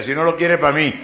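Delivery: shouting out. Retold or imitated. Spinster aunt shouting her claim at a wedding, loud eager yell. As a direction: blurt it out eagerly across the church. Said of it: "grita ella".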